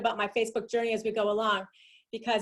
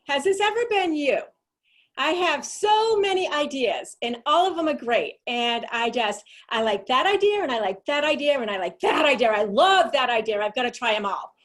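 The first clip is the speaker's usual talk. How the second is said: excited; 3 semitones higher, 6 dB louder than usual. Acted. Excited pitch of many ideas.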